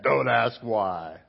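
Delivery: slow, measured parent's rule; stern parent. Retold or imitated. Pastor repeating his own rule to his kids, stern and slow. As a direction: spell out the rule to the kids, slowly. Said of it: "how many times did I say that".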